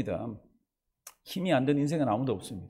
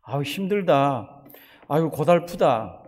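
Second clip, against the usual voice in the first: weary sighing complaint; 3 dB louder, slower than usual. Retold or imitated. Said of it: "이런 말이 입에 이렇게 붙어 있는".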